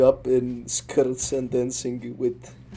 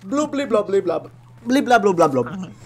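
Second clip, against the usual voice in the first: gurgling fish man croak; 8 semitones higher, 5 dB louder than usual. Pretend. Babbling blob noises in game.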